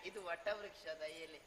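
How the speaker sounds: words run together; quick, casual patter; rattled off. Acted. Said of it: "ಅದೆಂತ ನಿನ್ನ ತಟಪಟ".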